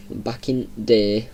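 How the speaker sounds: slow, drawn-out Yorkshire phrase; Yorkshire dialect. Real, not acted. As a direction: stretch it out in broad Yorkshire. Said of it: "another thing we say in Yorkshire".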